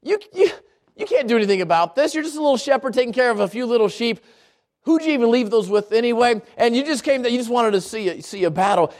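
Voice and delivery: rushed, lightly mocking put-down; mildly scornful big-brother taunt. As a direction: belittle him in a quick stream. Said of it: "He's mocking David".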